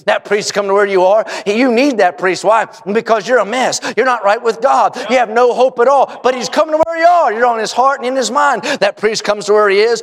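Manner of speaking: building, emphatic sermon voice; impassioned preaching. Real, not acted. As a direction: preach hope to the lost with force. Preaches the priest's coming.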